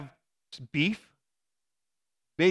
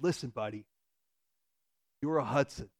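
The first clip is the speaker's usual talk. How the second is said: soft fatherly talk; 4 semitones lower, 6 dB quieter than usual. Retold or imitated. Dad kneels, talks to son.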